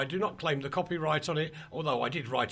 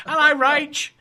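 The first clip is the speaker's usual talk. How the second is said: big bright hello, raised high and loud; loud greeting; 12 semitones higher, 12 dB louder, slower than usual. Real, not acted. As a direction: call out the hello to her. Greeting co-host joining the call.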